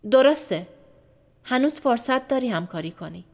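loud, cold confirmation then pressure; clipped threat followed by a bargain; stern interrogator. Acted.

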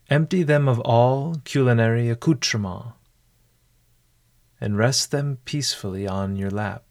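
measured instructions with long pauses; guided meditation. Acted. Host settling a listener before a mindful meal, guided meditation. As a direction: guide the listener unhurriedly, leaving room after each step. Leads a mindful eating exercise.

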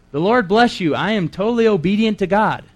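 high, loud, overeager greeting; hammed-up pious announcement; mock pious greeting. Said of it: "What if I just walked up to you".

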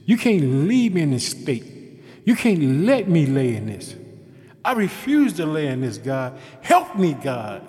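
loud, desperate plea to God; pleading prayer. Pretend. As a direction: beg God out loud, rising to a cry.

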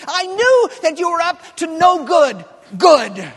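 indignant told-you-so rant; finger-wagging rebuke. Retold or imitated. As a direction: scold like a man who was right all along. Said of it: "wagging his finger at God".

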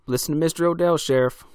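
a townsman pressing the sheriff loudly to listen; urgent townie. A narrator's reading. Townie urges sheriff to back down.

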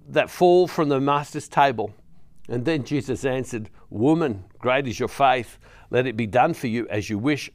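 measured, carrying gospel reading voice; scripture reading. Acted. Preacher reading scripture aloud to the congregation, measured. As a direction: read the passage to the congregation with weight.

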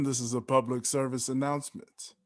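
deep booming show announcer. Acted. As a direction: announce it like a broadcast. Podcast intro announcement.

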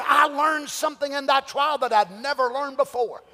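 a touch of tearful testimony, rising; testifying preacher voicing Paul; triumphant Paul. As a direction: look back on the trial with awe. Paul voiced after the trial.

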